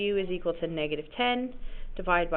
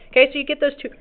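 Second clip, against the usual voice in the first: hiccuping mid-sentence; words jolted by hiccups; 6 semitones higher, 5 dB louder, faster than usual. Real, not acted. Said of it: "Sorry, I got the hiccups".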